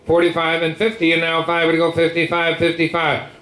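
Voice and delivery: rapid rolling bid chant; auctioneer. Real, not acted. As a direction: rattle off the bids like an auctioneer.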